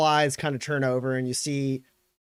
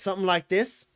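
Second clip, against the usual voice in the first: higher-pitched pointed challenge; leading, raised retort; Graves; 7 semitones higher than usual. Acted. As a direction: call his bluff. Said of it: "She goes".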